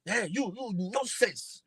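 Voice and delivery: high-pitched scolding outburst, imitated; mock shouting. Imitating a teacher shouting at students, high mock yell. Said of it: "you shout at them".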